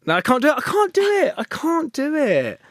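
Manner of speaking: laughing give-up. Real, not acted. Giving up on impression.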